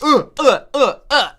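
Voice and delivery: laughing. Real, not acted. Laughing fit after being startled.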